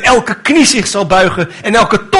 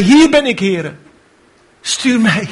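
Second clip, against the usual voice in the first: high eager answer; 3 semitones higher than usual. Retold or imitated. Isaiah answering God's call, high and eager. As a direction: jump up and volunteer. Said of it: "hief zijn hand op en zei".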